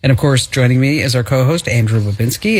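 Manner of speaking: radio show intro voice; announcer. Acted.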